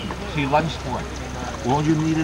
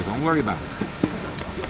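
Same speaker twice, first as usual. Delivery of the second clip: soft, slow, lower reassurance; reassuring; 6 semitones lower, 7 dB quieter, slower than usual. Real, not acted. Coach promising to hold the swimmer, reassuring. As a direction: soothe softly, drawing the words out.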